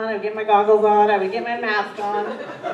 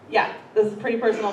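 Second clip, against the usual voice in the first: fast talking; faster than usual. Real, not acted. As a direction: rattle it off fast. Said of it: "talk as fast as I can".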